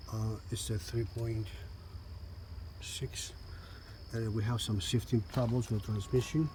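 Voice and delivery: lying under a car. Real, not acted. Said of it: "I'm out of the car now".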